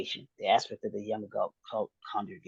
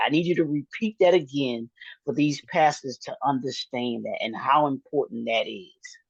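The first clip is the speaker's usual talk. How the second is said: excited; 4 semitones higher, 4 dB louder than usual. Real, not acted. Cohost stops him, demands repeat.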